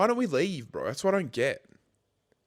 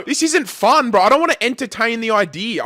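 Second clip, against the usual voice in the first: high-pitched, anxious protest; real scared pleading; 5 semitones higher, 3 dB louder than usual. Real, not acted. Refusing to talk to the ghost, scared pleading. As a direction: plead to get out of it. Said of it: "I'm f-, scared".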